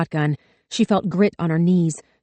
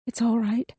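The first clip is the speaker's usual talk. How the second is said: soothing; 5 semitones higher, 4 dB quieter than usual. A narrator's reading. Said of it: "Samantha tried to soothe".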